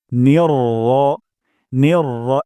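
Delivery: নির র with a short unstretched র; Arabic short ra. Shown as a demonstration. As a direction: keep the র short, no রা. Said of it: "রা বলবো না, র বলবো".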